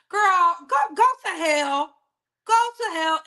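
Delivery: loud, scornful go to hell; telling her to go to hell. Real, not acted. Host yelling at Amy to go to hell, loud and scornful.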